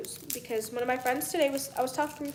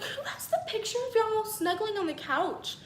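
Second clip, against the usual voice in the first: laughing question; 6 semitones higher than usual. Retold or imitated. Asks him, laughing.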